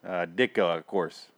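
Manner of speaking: hammed-up Chicago sports fan; mock Chicago accent. Fan predicting the score, mock Chicago accent. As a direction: play a Chicago superfan calling the score. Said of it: "pulling that accent out".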